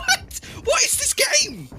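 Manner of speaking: high, laughing, stunned reaction; laughing disbelief. Real, not acted.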